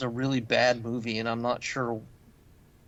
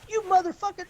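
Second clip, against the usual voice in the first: high mock kid yell; screaming kid. Kid losing it on the wrestler, high mock yell. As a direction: squeal the insult like a furious boy. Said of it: "He's like".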